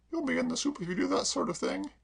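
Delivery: a hint of a stern mistress; Kay. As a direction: mistress chiding the maid mildly. Kay reproving.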